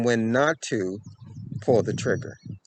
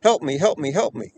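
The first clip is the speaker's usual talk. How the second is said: retold scream; 6 semitones higher than usual. Abducted girl begging a stranger for help, mock scream. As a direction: imitate her desperate cry, not full force. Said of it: "She's screaming".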